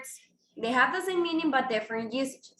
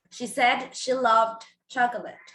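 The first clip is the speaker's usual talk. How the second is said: slowed teaching model. Shown as a demonstration. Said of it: "you will have to say".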